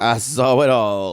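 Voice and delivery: low-pitched cat commentary; talking cat. Acted. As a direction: play the cat as a low-voiced witness. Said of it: "the cat's back there going".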